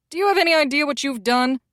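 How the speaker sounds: accusing. Acted. Publicist jabs her, accusing.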